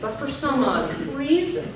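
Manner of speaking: slow drill phrase, "reason" drawn out; teacher's slow model of "odd reason"; last word lengthened. Shown as a demonstration. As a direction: stretch "reason" and lift the end. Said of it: "the last word gets longer".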